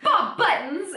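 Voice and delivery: high laughing Bob Buttons; laughing quote. Retold or imitated. Host repeating the cat's silly name, laughing and high. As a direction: crack up as you say the name.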